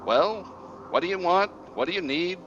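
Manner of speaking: high, impatient hag voice; cranky old witch. Acted. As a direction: snap like an annoyed crone.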